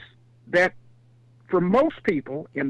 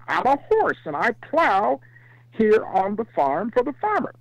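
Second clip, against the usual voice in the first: lightly voiced horse, pitched up; a simple higher farm-animal answer; horse character; 4 semitones higher than usual. Horse explains its job to zebra, lightly raised voice. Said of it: "And the animal said".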